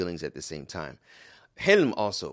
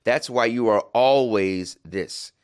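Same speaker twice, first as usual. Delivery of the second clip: mock raised voice; 3 semitones higher, 7 dB louder, slower than usual. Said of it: "she may raise her voice and say".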